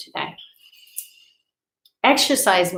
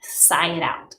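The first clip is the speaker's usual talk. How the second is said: whispered. Shown as a demonstration. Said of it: "Take a deep breath in and".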